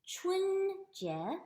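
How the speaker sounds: "Chun" high and level, "Jie" rising; first and second tone. Shown as a demonstration. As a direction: hold "Chun" flat, then lift "Jie". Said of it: "first tone".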